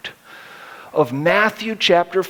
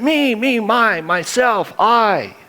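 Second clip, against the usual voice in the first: mocking selfishness; 5 semitones higher than usual. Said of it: "it's just obnoxious".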